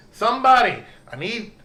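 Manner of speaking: loud, high cry for help; screaming. Acted. Tavern owner calling the room for help, screaming. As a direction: scream out high, then ease off. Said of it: "tavern just screaming".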